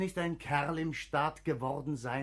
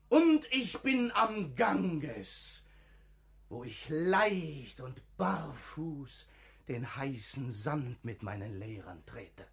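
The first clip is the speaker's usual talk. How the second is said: dreamy; 3 semitones lower, slower than usual. Acted. Träumt sich an den Ganges.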